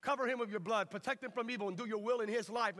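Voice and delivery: booming cry of Lord, then brisk prayer; imitated father praying. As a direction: pray out loud over your son in public. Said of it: "lay hands on me and pray".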